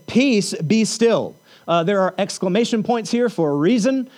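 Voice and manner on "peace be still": slow, firm word of command; authoritative command. Retold or imitated. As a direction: order the storm down, each word deliberate. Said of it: "with a loud, authoritative voice".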